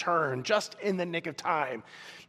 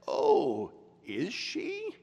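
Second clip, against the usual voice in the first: high, eerie drawn-out question; gray, terrible voice; 10 semitones higher, much slower than usual. Acted. A werewolf answers that the witch is dead, gray terrible voice. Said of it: "That gray and terrible voice".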